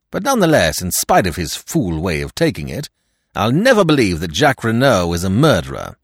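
emphatic defence of a friend; lightly voiced staunch secretary, insisting; loyal Stoner. Stoner as a figure of the story.

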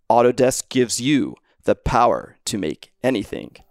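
lightly hammed-up radio ad read; radio announcer voice. Shown as a demonstration. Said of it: "in my radio announcer voice".

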